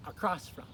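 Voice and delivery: "across" stressed on its second syllable, a-CROSS. Shown as a demonstration. Teacher has learners repeat, "across" stressed on "cross". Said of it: "accents on that second syllable".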